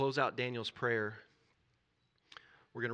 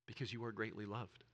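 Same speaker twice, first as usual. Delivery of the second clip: tender; 6 dB quieter than usual. Real, not acted. Preacher answers own question tenderly.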